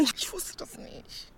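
soft, slow, unvoiced admission; sheepish. Woman sheepishly admitting to Mike she didn't know. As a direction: admit it small and ashamed.

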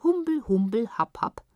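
silly gibberish. A narrator's reading. Tibetans answer Frau Philipp's question, silly gibberish. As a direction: recite nonsense in a lightly silly voice. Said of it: "Die Tibetaner sagten".

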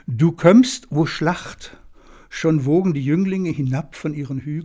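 lightly pathetic declaiming; a hint of rising stage pathos; hammy stage actor. Shown as a demonstration. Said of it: "Ich lese mal vor".

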